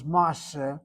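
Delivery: maaseh as two syllables, MAS-SEH; original closed-syllable form. Shown as a demonstration. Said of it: "probably started off as".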